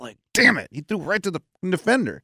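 understated inner grumble. Retold or imitated. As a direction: keep the anger to yourself. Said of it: "deep inside".

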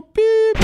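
one sharp, very high, loud beep; ping the fire button with one high beep. Retold or imitated. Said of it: "That's the sound the button hits".

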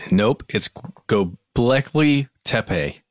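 Göbekli Tepe said slowly, broken into careful pieces; slowly over-pronounce "Göbekli Tepe" as a joke; mock correction. Co-host jokingly correcting the host's pronunciation, mock-careful correction. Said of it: "just joking".

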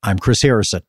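dramatic news anchor read; breaking news voice. Shown as a demonstration. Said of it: "is my breaking news voice".

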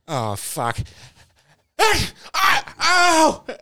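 sudden high yelp of pain; mock agony cry; imitating a pain cry. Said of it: "he's like".

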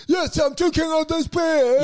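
mock stand-up bit. Doing a comic's special in his own voice, hammed-up. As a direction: belt it out like a comic on stage. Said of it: "Go like".

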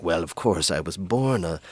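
character monologue. Retold or imitated. Co-host imitates a TV character droning about himself, mock self-important. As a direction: impersonate a self-absorbed schemer telling his life story. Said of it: "he's like".

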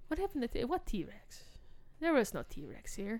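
bad mock Russian accent as Putin; hammy Russian villain accent, lightly done. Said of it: "It's my terrible Russian accent".

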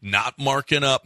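casual live radio ad read; sports host reading a car dealership ad. Acted. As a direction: pitch the dealership like a chatty radio spot. Host reads sponsor ad.

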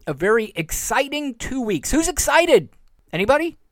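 mocking the promise with a pitch jump up; sarcastic echo. Real, not acted. Host mocking Trump's promise to listeners, sarcastic. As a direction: scoff at it, then ask the crowd sarcastically.

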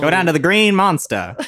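high vintage radio pitch; old-timey announcer. Pretend. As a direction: announce it like a 1940s sportscaster. Finishing the announcer line.

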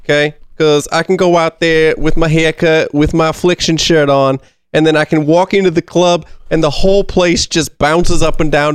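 lightly put-on Jersey Shore accent; a hint of a Jersey Shore club guy. Player defending the card in a light Jersey Shore accent. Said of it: "down here in the Jersey Shore".

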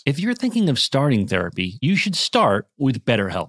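scripted podcast sponsor read. Acted. Host describing stress for a therapy sponsor, measured ad read. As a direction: deliver it to listeners as prepared copy.

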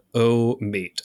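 put-on half-hearted try at an Australian accent; failed Australian accent. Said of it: "I also can't do an Australian accent".

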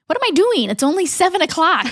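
high, startled realization; lightly acted startled Jesse; sudden realization. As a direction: catch yourself in disbelief. Jesse realizes it's early.

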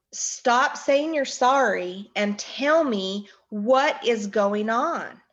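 restrained mock yell, slow and emphatic; retold scream. Frantic mother on the phone demanding news, retold as a mild yell. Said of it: "I was screaming in the phone".

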